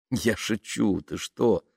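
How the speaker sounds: soothing, slightly hushed; calm him down lightly; mild reassurance. Acted. Woman says she was joking, mild reassurance. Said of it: "успокоила она".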